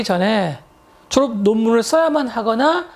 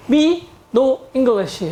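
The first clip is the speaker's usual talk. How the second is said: ME NO ENGLISH spaced out word by word; slow broken-English demo; 2 semitones higher, much slower than usual. Shown as a demonstration. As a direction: demonstrate "Me no English" slowly, each word separate. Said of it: "영어 못한다, 그런 얘기죠". ("Me no English"를 한 단어씩 천천히 시범)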